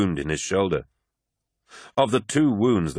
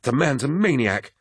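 higher-pitched, indignant hiss; mutedly outraged, pitched up; 6 semitones higher than usual. A narrator's reading. Apothecary about the captain who choked him, hissed. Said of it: "hissed Vaden".

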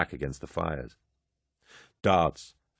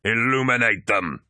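louder rallying cry; battle yell; 4 semitones higher, 4 dB louder than usual. A narrator's reading. War Master rallies his warriors before the charge, loud yell. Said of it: "he yelled in Chthonic".

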